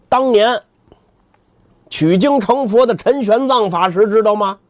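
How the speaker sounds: arrogant boast. Acted. 扫地僧发威.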